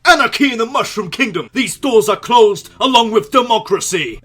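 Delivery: loud, high rebel yell; snarling punk. Pretend. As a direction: shout it like a riled-up anarchist. Mock anarchist rant at Bowser.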